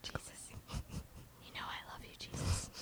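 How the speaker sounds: whispered soothing shushes; calming a dog. Pretend. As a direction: hush him gently like a scared pet. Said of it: "It's like calming my dog down".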